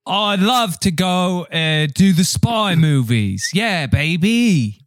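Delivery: badly faked impression with drawn-out endings; high, swaggering hello, stretched out; Sean Connery. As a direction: do a hopelessly off celebrity voice. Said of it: "really good Sean Connery impression".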